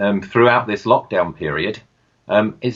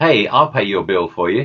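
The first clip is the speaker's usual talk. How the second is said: imitated, put-on American accent. Retelling how a stranger offered to pay the hotel bill: imitating an american accent. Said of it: "strange American accent came from behind me".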